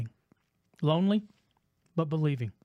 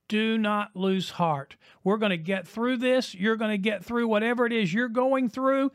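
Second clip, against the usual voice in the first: rousing preaching climax; 3 semitones higher than usual. Acted. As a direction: build to the close of the sermon, lifted and urgent.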